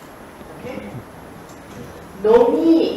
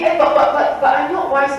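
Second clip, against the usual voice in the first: hesitant objector; 3 semitones higher, 4 dB louder than usual. Acted. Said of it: "Now, then you say".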